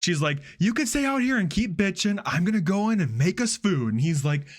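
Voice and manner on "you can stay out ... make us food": nasty. Retold or imitated. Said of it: "she starts getting so nasty".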